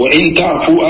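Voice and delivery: وإن تعفوا read out with "wa-in"; kasra on the hamza. Shown as a demonstration. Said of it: "نعم، عندي بالكسر". (انطق وإن تعفوا بكسر همزة وإن)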